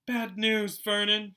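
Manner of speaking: fretful wife breaking bad news; Aunt Petunia, high and tense, warning her husband; worried Aunt Petunia. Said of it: "looking both angry and worried".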